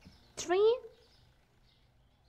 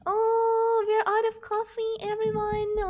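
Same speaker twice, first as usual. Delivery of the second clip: dismayed announcement; 3 semitones higher, 4 dB louder than usual. Real, not acted. Shopkeeper telling everyone the coffee ran out, dismayed announcement. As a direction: open on a loud, long oh of dismay.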